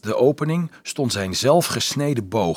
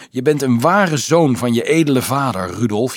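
louder, lifted cry of praise; jubilant; 4 semitones higher, 6 dB louder than usual. A narrator's reading. Boy embracing Dolf as a true noble's son, jubilant. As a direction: cheer it out proudly. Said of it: "juichte hij".

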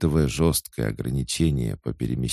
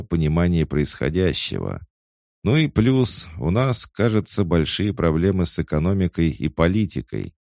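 wild cat voice; 6 semitones higher, 5 dB louder than usual. A narrator's reading. Cat keeps talking.

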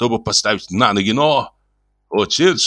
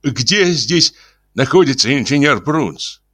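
polite, lifted, melodious question; pleasant voice; 7 semitones higher than usual. Acted. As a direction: ask sweetly as a courteous visitor. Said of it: "спросил приятным голосом".

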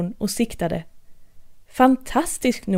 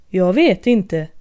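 March Hare; 3 semitones lower, 4 dB louder, slower than usual. Acted. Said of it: "sa marsharen".

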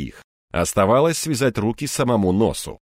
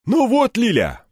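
exhaled remark; 12 semitones higher, 3 dB louder than usual. A narrator's reading. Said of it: "выдохнул один из П П Сников".

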